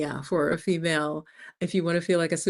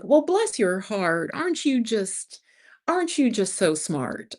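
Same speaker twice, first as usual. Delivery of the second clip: Southern snideness; 4 semitones higher than usual. Retold or imitated. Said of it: "the Southern kind of snideness".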